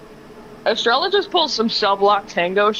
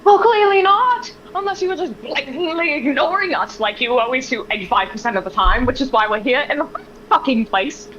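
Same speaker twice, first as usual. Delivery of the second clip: pitched-up angry retort; sharp, high exasperated snap; 4 semitones higher than usual. Acted. Estrella snaps at Leviticus for ignoring them. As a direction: lash out at him.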